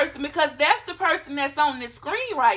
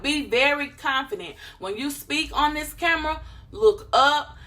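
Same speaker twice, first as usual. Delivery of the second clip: normal talking voice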